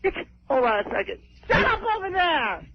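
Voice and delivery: slurred, sloppy speech. Real, not acted. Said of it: "She's sauced".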